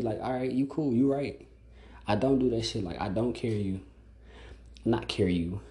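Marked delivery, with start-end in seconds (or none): 0.2-3.8 sarcastic agreement. Retold or imitated. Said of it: "That's exactly how I'ma tell you".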